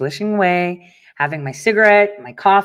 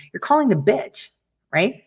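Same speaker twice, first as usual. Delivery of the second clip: usual speaking voice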